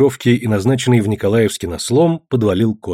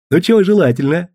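merchant asking; 6 semitones higher than usual. Acted. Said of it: "спросил купец".

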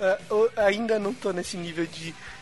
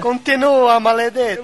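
put-on loud hammy Italian accent; mock Italian, louder and higher; 3 semitones higher, 8 dB louder, slower than usual. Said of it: "Italian mock exchange".

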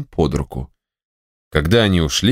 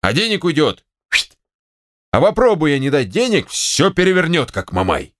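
higher, exasperated grumbling; fuming; 7 semitones higher than usual. Acted. General alone, fuming about the money.

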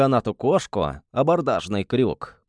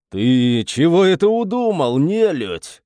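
louder, higher angry shout; 5 semitones higher, 5 dB louder than usual. Acted. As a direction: bark it at the prisoner. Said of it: "крикнул душегуб".

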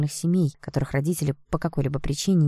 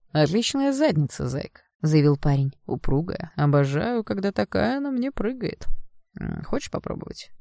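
sleazy taunting lad; 4 semitones higher than usual. Acted. Blond harasses the girl.

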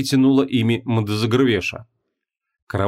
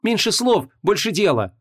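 impatient interruption; 9 semitones higher than usual. A narrator's reading. Vanessa cuts off the demon, impatient and higher. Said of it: "перебила Ванесса".

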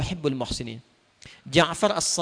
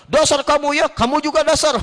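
mock insult; 8 semitones higher, 3 dB louder than usual. Acted quarrel insult.

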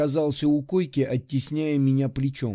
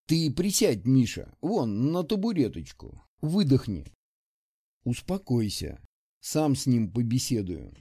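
calming. Acted. Calming the angry comrade.

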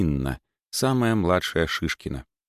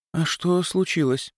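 surprised; 10 semitones higher than usual. Acted. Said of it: "удивлённо спросила Елизавета".

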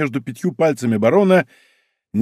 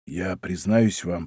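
slow, hushed confiding tone; lowered voice; 5 semitones lower, 6 dB quieter, slower than usual. A narrator's reading. Porthos confessing a secret to d'Artagnan, slow lowered voice. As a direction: lean in and drop the voice, slowly. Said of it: "И Портос понизил голос".

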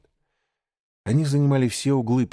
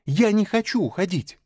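hot exclamation; 11 semitones higher than usual. Acted. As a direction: cry out in protest. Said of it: "горячо воскликнул он".

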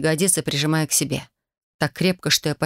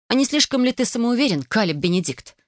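blurted out; 6 semitones higher than usual. A narrator's reading. Megan challenging Caleb, high indignant blurt. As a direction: fire it off in indignation. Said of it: "выпалила".

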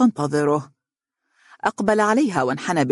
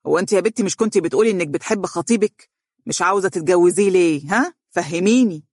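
mother pressing for an answer; insistent maternal interrogation; demanding questioning; 3 semitones higher than usual. Acted. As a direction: grill her with raised pitch. Mother interrogates her crying daughter.

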